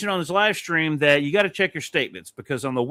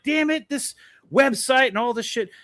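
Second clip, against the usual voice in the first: frustrated cursing; 9 semitones higher than usual. Retold or imitated. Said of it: "I'm sitting there going".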